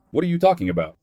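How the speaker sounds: high-pitched, incredulous question; baffled disbelief. A narrator's reading. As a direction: push the pitch up in bewilderment. Accused cultist reacts in disbelief.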